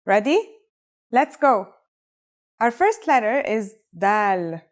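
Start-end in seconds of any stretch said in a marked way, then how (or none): 4.0-4.6 dal with a plain English D. Shown as a demonstration. Teacher introducing the first Arabic letter, dal with English D. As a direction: say dal starting on a hard D. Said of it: "It's just like the English D".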